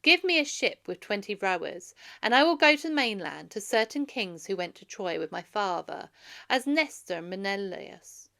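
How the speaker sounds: put-on young prince firmly demanding a ship; resolute request. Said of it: "Telemachus spoke again".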